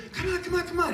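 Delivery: put-on very high, insistent child voice; imitating a small kid's eager pleading; excited six-year-old. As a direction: tug Dad along impatiently. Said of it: "his six-year-old son came running in".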